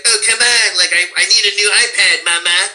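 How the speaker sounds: lightly voiced whiny big guy begging mama; Cartman unsped. Showing Trey Parker's raw Cartman voice, a hint of whiny big guy. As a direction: whine for an iPad like a spoiled kid. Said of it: "sounds like this big fat guy".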